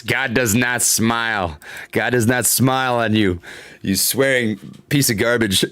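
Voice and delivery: a hint of a stern preacher, low and slow; mock stern voice. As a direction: read the chat line as mock solemn judgement. Reading a chat message aloud.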